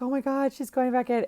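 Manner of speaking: high, teary squeal of disbelief; tearful retold cry. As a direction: squeak it out through happy tears. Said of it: "and I'm bawling".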